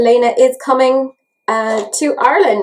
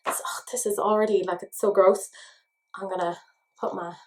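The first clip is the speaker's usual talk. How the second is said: whisper; 3 semitones lower, 9 dB quieter than usual. Real, not acted. Whispered dismay.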